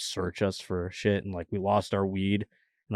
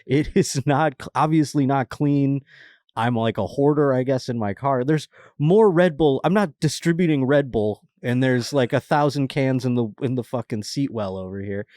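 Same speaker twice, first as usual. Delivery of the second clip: high, loud nervous rambling to the cops; scared pleading; 5 semitones higher, 4 dB louder than usual. Retold or imitated. Pleading with the cops over his messy car, loud and nervous. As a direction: talk fast and defend yourself, panicked. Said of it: "I got scared. I go".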